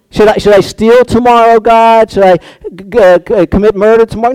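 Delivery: mock innocent petition; mock naive prayer. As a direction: play the foolish believer asking God. Mock prayer asking to sin.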